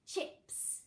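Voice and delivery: Chips with a crisp ch; stressed ch. Shown as a demonstration. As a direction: sound out the ch in Chips. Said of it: "Which digraph can we hear".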